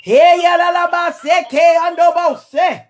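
speaking in tongues. Real, not acted. Sung-shouted tongues.

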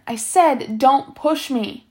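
slow, threatening warning; menacing. Acted. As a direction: spell it out slowly as a threat. Zigzag repeats threat.

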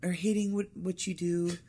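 put-on airy Valley Girl, stretched vowels. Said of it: "I got my Valley Girl voice".

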